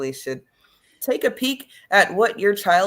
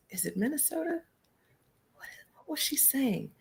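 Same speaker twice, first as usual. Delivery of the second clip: 1 trying to recall; 9 semitones higher, 10 dB quieter than usual. Real, not acted. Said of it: "trying to recall the accent".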